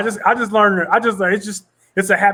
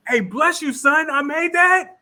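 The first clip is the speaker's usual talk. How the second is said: mock heavenly spirit; 11 semitones higher, much slower than usual. Voicing producer's heavenly spirit.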